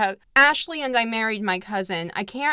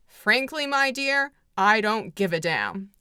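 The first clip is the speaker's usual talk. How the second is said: famous line. Retold or imitated. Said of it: "which is the famous line in the movie".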